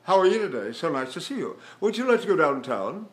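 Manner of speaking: jawless, tongueless, throatless delivery; loose-tongued speech. Shown as a demonstration. Teacher demonstrating free speech in small talk, jawless and loose. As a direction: speak with the back of the tongue loose. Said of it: "Jawless, tongueless, throatless".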